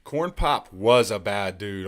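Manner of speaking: slow mock repeat; slow deadpan echo of the soundbite; echoing Uncle Joe. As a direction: parrot the line back slowly. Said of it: "Uncle Joe".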